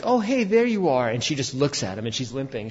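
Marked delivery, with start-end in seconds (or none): 0.0-1.1 high, breezy casual hello; casual greeting. Retold or imitated. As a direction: greet her like nothing is wrong. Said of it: "he's like".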